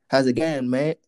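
mock American accent that lands somewhere else; botched American accent. Mocking an actor who tries to speak American English, botched American accent. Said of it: "Sorry, that wasn't American. I don't know what accent".

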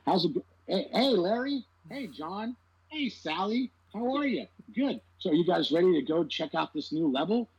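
cheesy actor voice. Retold or imitated. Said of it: "gamers don't talk like that".

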